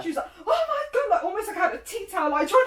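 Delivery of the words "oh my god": high, loud laughing oh my God; mum's horror played for laughs; shrieking through laughter; laughing mock shock. Mum shocked at weeing.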